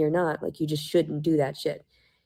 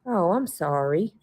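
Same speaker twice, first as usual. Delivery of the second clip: slow, mock-sorry drawl; facetious apology. Real, not acted. Sarcastic apology to the people she's mocking. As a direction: fake an apology you don't mean. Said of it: "I'm being facetious".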